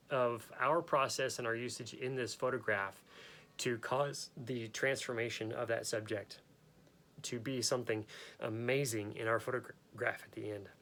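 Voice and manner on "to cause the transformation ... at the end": talking through hiccups; speech broken by hiccups. Real, not acted. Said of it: "I don't know why I have the, the hiccups right now".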